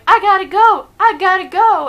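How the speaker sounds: high, loud panicked yell; mock freak-out. Imitating the ladybird that is seriously freaking out, panicked. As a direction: act out a frantic, panicking little bird. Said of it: "one's seriously freaking out".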